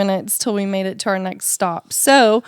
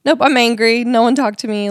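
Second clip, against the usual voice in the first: louder, mildly angry dismissal; angry brush-off; 3 semitones higher, 5 dB louder than usual. Acted. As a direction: shut everyone out with a touch of anger. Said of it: "instead of just being like".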